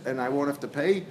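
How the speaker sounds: rising question on "pay"; "pay" turned up into a question. Acted. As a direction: ask it, lifting "pay" at the end. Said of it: "He said it with a question mark".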